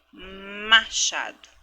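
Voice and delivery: Machado stretched very slowly; teacher's slow careful demo; slow syllable by syllable. Shown as a demonstration. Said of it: "do inicial também do".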